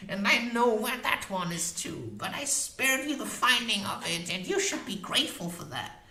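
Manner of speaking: high, fierce crone voice; witch voice. A narrator's reading. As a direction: boast like a proud old witch.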